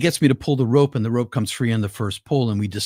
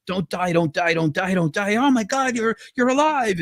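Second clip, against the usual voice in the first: retold panicked crying; 8 semitones higher than usual. Friend pleading with a climber to live, retold panic. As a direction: imitate a friend begging through tears, pitched way up. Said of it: "and he's in panic".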